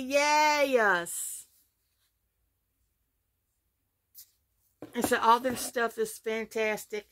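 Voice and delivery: talking around a piece of gum; words slightly thick from gum in the mouth; chewing gum. Real, not acted. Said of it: "I have gum in my mouth".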